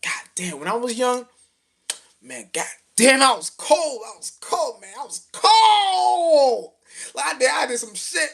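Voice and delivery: high, hammed-up old man bragging about his youth; old man reminiscing. Old man looking back on his youth, mock proud bragging. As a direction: crow it out like a proud old-timer. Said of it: "look at your past and be like".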